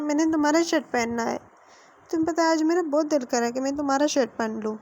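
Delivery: a lightly voiced petulant young man, pleading; whiny young lover. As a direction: wheedle like a spoiled boyfriend. Narrator voices Wing pleading.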